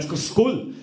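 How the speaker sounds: high, strained laughing cover-up, slowing down; nervous laughing gush. Retold or imitated. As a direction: oversell it with a guilty laugh. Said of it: "I'm like".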